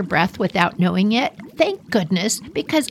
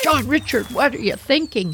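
scolding dad; 5 semitones higher than usual. Retold or imitated.

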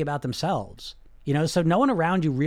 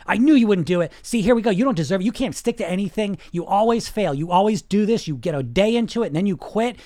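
loud scolding parent voice, higher and louder; mock nagging inner critic, raised and loud; harsh inner critic; 4 semitones higher, 5 dB louder than usual. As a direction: berate yourself like a disciplinarian parent. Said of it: "you got some voice like that".

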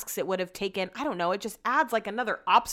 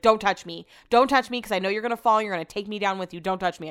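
warning; 3 dB louder, faster than usual. Retold or imitated. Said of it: "I was like".

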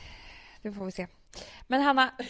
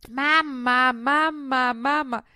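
put-on child calling; 3 semitones higher, 5 dB louder, much slower than usual. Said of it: "hör jag hur Charlie börjar skrika".

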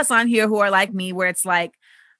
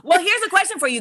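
after laughing hard; 9 semitones higher, faster than usual. Real, not acted. Host still laughing.

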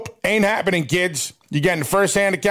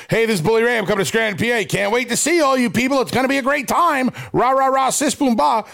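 put-on cheery babyface promo; 4 semitones higher, faster than usual. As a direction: pump up the crowd like a cheerleader, pitched up.

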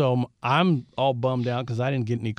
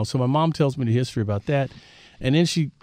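ordinary talk

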